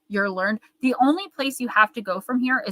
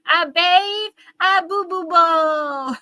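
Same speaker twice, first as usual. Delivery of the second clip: much higher, slow put-on babble; silly mock voice; 9 semitones higher, 5 dB louder, much slower than usual. Quoting a funny short video, silly high babble. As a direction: squeak out the nonsense like a cartoon. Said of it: "What were we just saying?".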